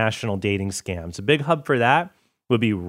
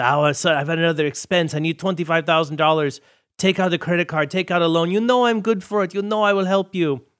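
high, wheedling imitation of a con man; mock pleading; 6 semitones higher than usual. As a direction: imitate a swindler pressing for another loan. Acts out swindler pressing for more money.

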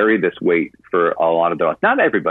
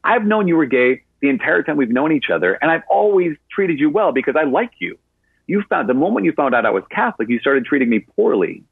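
higher, pointed comeback; sassy retort; 8 semitones higher than usual. Retold or imitated. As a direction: call out the double standard, sassy. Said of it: "this is a sassy woman".

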